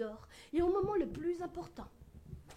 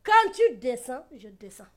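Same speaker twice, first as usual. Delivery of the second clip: menacing threat; 14 dB louder than usual. Retold or imitated. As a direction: threaten him slowly. Threatening a man on the bus.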